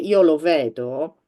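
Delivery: Italian "Io lo vedo" said smoothly as one unit; "Io lo vedo" flowing without breaks; Italian phrase. Shown as a demonstration. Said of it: "So if you say".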